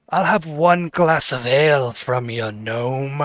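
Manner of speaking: first reading of the noble's order; said offhand, before the correction; the cloaked noble orders ale, first casual take; plain noble line. Acted. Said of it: "he wouldn't say it like that".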